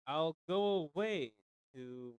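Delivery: measured, lilting ballad reading with mournful refrains; poem recital. Acted. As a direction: recite it like an old sorrowful ballad. Reads a ballad aloud.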